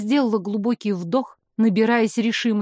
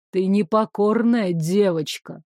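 menacing; 3 semitones lower than usual. Acted. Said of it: "грозно сообщил".

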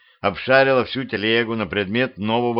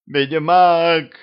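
higher, louder calling out; loud shout; 7 semitones higher, 5 dB louder than usual. A narrator's reading. Matilda calling after the wizard, loud shout. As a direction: yell it across the yard. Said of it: "громкий женский крик".

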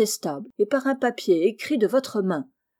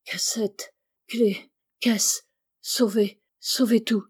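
barely intelligible murmur; slower than usual. Acted. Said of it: "murmura d'une façon presque inintelligible".

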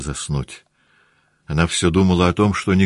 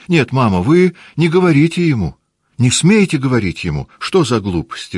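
high, louder indignant outburst; possessive protest; 7 semitones higher, 4 dB louder than usual. Acted. Наташа возмущённо запрещает матери говорить с Борисом. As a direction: defend what's hers, high and loud. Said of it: "тоном человека, у которого хотят отнять его собственность".

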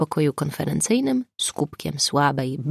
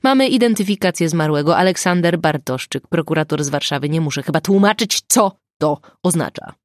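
irritated; 3 dB louder, faster than usual. Acted. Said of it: "zaczął Dunin z irytacją".

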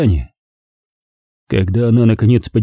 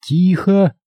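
commanding hush; 8 semitones higher than usual. Acted. Leonora silences him.

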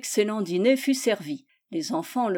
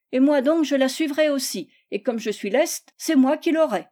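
put-on higher, lively child's boast; eager rival child; 5 semitones higher, 4 dB louder than usual. Michel competes for the knife, eager.

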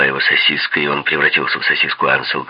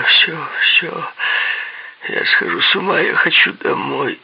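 very high, plaintive pleading; 13 semitones higher, slower than usual. A narrator's reading. Man begging to be let go home, plaintive. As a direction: beg pitifully in a high, thin wail. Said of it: "сказал он жалобно".

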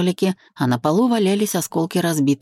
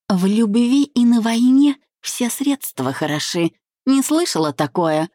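open mockery; 7 semitones higher than usual. A narrator's reading. Bride taunting her former friend, open mockery. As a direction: gloat with a lifted, mocking lilt. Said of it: "с нескрываемой издёвкой".

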